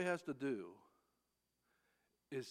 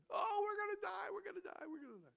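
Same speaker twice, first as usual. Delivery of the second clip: panicked complaining; faster than usual. Retold or imitated. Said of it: "start complaining".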